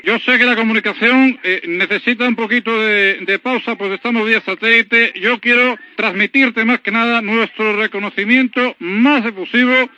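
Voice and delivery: José María Aznar impression. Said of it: "le paso con el presidente Aznar".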